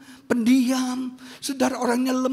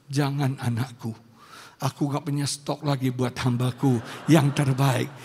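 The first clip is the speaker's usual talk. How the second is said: gentle divine plea; 8 semitones lower than usual. Retold or imitated. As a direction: plead low and gently. Voices God pleading with her.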